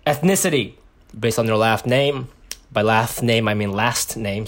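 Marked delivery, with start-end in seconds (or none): 1.2-4.5 mouth full. Real, not acted. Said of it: "Sorry, I'm eating. Can't even speak".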